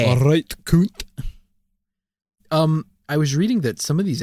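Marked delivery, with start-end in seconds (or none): 0.0-1.0 mock British echo. Echoes the mock insult.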